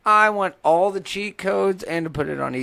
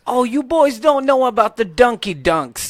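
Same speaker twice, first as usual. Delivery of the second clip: goofy character voice; 5 semitones higher, 5 dB louder, slower than usual. Retold or imitated. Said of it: "mimicking the gamer character voice".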